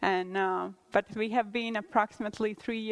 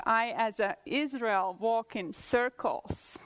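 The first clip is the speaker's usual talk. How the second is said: whispered. Real, not acted. Rhetorical confession of wandering.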